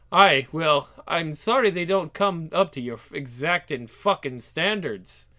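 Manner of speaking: lightly voiced sarcastic Scot; touch of Scottish indignation; irritated Scotsman. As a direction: answer back with a Scottish edge. Reads Scottish character's dialogue.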